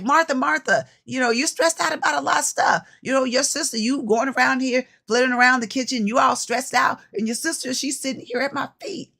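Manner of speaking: a hint of Jesus talking Martha down; Jesus voiced gently. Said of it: "he was like".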